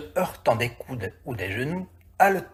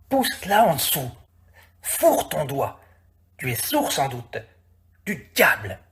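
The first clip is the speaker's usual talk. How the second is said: lightly voiced irritated workman; impatient fisherman. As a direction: scold him for not listening. Liobim shouting orders while fishing.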